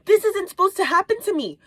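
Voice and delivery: high, loud whine of disbelief; dismayed protest. Retold or imitated. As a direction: wail it like an unfair fate. Retelling her own dismayed protest.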